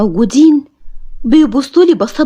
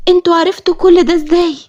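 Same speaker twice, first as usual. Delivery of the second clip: higher, shocked questioning; acted shock, pitched up; 4 semitones higher than usual. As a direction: ask it in stunned disbelief. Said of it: "وقلت له وأنا مصدومة".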